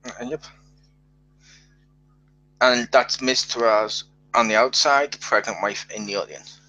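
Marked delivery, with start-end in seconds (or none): 2.6-6.6 deliberately slowed, pointed correction; slow, separated clarification. Shown as a demonstration. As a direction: spell it out slowly, phrase by phrase. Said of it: "say it all really fast together".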